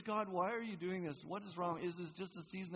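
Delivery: sincere, open question to God; honest plea. Shown as a demonstration. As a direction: ask it as a real question.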